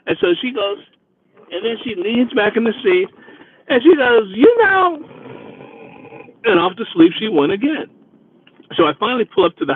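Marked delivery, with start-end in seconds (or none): 4.4-5.0 put-on high, slow, slurred drunk voice; mock drunk pleading, higher; suspicious drunk woman. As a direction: drag it out like a wary drunk.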